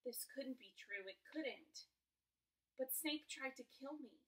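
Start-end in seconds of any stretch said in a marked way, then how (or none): 2.8-4.2 put-on higher, louder boyish protest; protesting Harry. A narrator's reading. Harry objects to Quirrell's revelation, protesting in disbelief.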